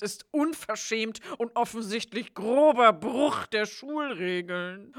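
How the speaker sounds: slow sneering teacher; Snape voice. Pretend. Snape voiced, mocking school rules. (langsamer, höhnischer Lehrer)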